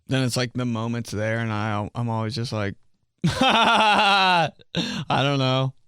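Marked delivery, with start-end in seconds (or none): 3.2-5.7 flustered squeak. Retold or imitated. Flustered reply to a girl.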